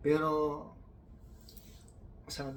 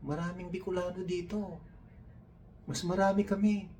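mock proud Bicolano; 9 semitones higher than usual. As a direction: crow about the Bicolanos.

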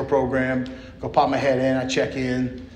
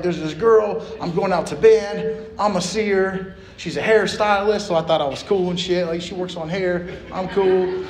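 cocky bragging; 5 semitones higher than usual. Retold or imitated. Bragging in group, retold.

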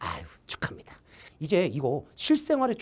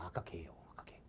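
whispering; 14 semitones lower, 24 dB quieter than usual. Real, not acted. Whispered repeat.

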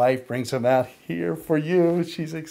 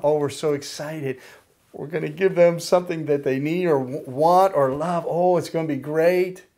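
quick, eager voice of someone giving a gift, a little louder; mock excited giver; 2 semitones higher, 4 dB louder than usual. Preacher imitating a family on Christmas morning, excited and fast. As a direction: gush over the gift you're about to give, hurried. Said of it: "we get excited".

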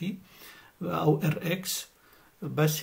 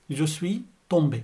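slow, each syllable of "Je suis tombé" drawn out; slow model repeat; much slower than usual. Shown as a demonstration. Teacher repeating slowly for Arabic-speaking learners, slow and clear. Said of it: "يعني أنا وقعت".

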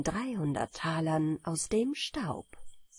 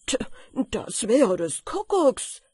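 loud, raised storybook exclamation; exclaimed call; 4 semitones higher, 7 dB louder than usual. A narrator's reading. Miller hears of wine under the pillow, exclaiming loudly. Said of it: "rief der Müller".

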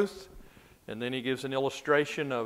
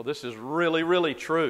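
"really, really true" with the second "really" lifted and louder; earnest emphasis; 3 semitones higher, 4 dB louder than usual. Retold or imitated. Teacher glossing a doubled word for the class, "really, really true" stressed earnestly. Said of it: "put emphasis on a word or to show your deep earnestness".

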